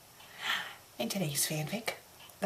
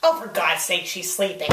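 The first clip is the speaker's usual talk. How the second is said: ordinary talk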